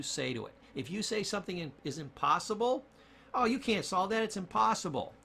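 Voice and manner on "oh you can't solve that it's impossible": higher, louder voice of defeatist self-talk; raised, emphatic mock protest; acted dismissal. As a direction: play the naysayer declaring it hopeless. Acted self-talk declaring it impossible.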